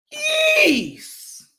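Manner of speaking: high, shouted disbelief; stunned fan outburst; shocked shout. Real, not acted. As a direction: blurt it out in shock. Reacting to a Jets touchdown.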